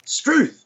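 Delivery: "Struth" as truth with an S in front; "Struth" in one high, falling exclamation; slang pronunciation demo. Shown as a demonstration. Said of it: "Take truth and put S on the front".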